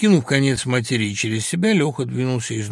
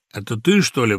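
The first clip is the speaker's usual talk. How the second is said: plain reading voice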